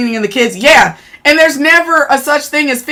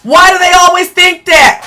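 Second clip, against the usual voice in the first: higher, louder demand; angry shout; 5 semitones higher, 3 dB louder than usual. Real, not acted. Streamer venting about men, shouting. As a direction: yell the question in outrage.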